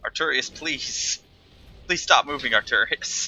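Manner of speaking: overacted anime dub. Pleading anime-style to boss.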